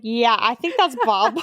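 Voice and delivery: slow, dopey deadpan reply; drawn-out clueless joke; slow deadpan Xander. Retold or imitated.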